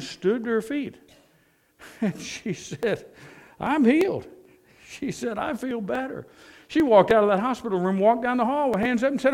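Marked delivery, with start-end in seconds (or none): 3.6-4.3 high, loud cry of joy; acted elation from the old lady; joyful exclaim. Healed woman exclaims. 5.4-6.3 joyful. Retold or imitated. Healed woman exclaims.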